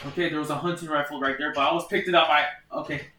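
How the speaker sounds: rushed and panicky; hurried, nervous talk; panicking. Real, not acted. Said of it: "I'm just panicking".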